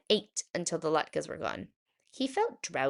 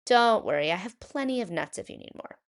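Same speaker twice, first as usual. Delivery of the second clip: put-on higher old grandmother voice; a sweet old lady lifted high; Bubba Braina; 3 semitones higher, faster than usual. Old woman greeting her guest at the door, higher voice.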